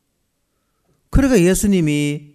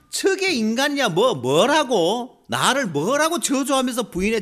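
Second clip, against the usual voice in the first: mock glaring scorn; 5 semitones higher than usual. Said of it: "저 인간 같지도 않은 것들을 째려봤으면은".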